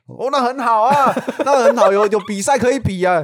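old man advising about the leather suit, hammed up; imitating the old man. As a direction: lecture like a fussy old uncle. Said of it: "他说".

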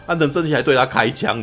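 high, loud, laughing through the words; recounting the scene to a friend, laughing; laughing retelling. Real, not acted. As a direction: still giggling while telling it.

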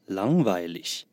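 langweilig slowed, with a clear nasal ng in lang; 鼻音清楚的 langweilig; nasal ng sound. Shown as a demonstration. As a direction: stretch out langweilig and let the ng ring in the nose. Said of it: "N G念鼻音".

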